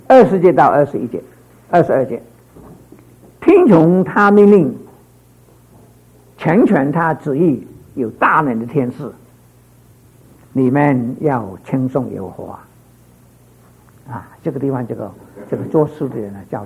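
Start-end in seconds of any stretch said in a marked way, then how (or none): 3.4-12.6 slow, measured verse reading; scripture reading. Acted. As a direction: lay each phrase out slowly like holy text.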